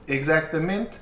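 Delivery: lightly voiced French character; French accent. Game master answers as Hope, French accent. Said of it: "she speaks with a French accent".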